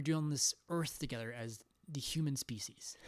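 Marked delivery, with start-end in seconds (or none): 2.4-3.0 whispered word at the end. Real, not acted. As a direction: drop into a whisper. Trailing whisper ending sentence.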